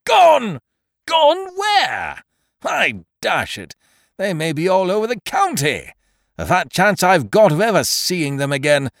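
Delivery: very high and loud, spitting out Gone; enraged tenant berating the landlord; furious rant. A narrator's reading. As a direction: at full outrage over his stolen fortune. Angry tenant rants about lost dogs.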